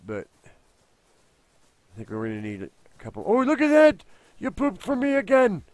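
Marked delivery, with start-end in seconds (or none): 3.3-5.6 high, loud gushing praise; thrilled at the pet; delighted. Real, not acted.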